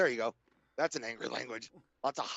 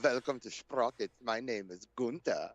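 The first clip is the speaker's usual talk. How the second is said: Sprockets host; 3 semitones lower than usual. Retold or imitated. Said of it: "shows like Sprockets".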